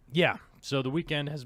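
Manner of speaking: pubescent crack up high. Real, not acted. Man in his forties catching up viewers, voice cracking. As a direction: voice cracks upward like puberty. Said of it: "the puberty crack in my voice".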